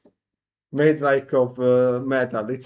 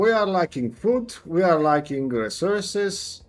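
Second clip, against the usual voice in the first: a lightly higher, insistent quartermaster; Renzo lecturing; 4 semitones higher than usual. Acted. Renzo telling the player to fix the food supply, mildly higher insistent. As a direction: push the player to find food.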